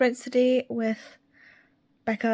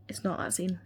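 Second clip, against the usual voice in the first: muttered; 7 dB quieter than usual. Real, not acted. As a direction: mutter it under your breath. Repeated denial.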